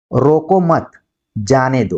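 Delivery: "रोको मत", a break, then "जाने दो"; group रोको with मत and pause before जाने; pause after मत. Shown as a demonstration. Teacher reading the comma, clear pause after मत. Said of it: "रोको मत के बाद यहाँ पर कॉमा".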